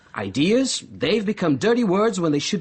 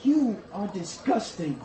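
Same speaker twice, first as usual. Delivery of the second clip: high scornful opening, then slow and cold; disgusted rebuke; 7 semitones higher than usual. Acted. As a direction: spit the contempt out slowly. John turns on Bernard in disgust.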